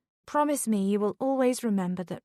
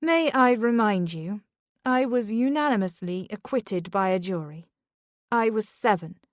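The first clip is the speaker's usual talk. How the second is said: rising louder in defiance; mother defending herself at school, rising louder; growing louder; 2 semitones higher, 4 dB louder than usual. Acted. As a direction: push back harder and louder. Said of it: "Beth's voice grew louder".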